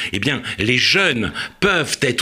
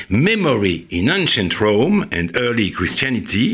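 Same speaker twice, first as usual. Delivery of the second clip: Memory in Ancient Rome and Early Christianity prononcé à la française; titre anglais, accent français. Real, not acted. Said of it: "excusez-moi pour mon accent". (accent français sur un titre en anglais)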